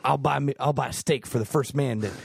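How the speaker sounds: a hint of a folksy Texan president; George Bush impression. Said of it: "that's my George Bush impression".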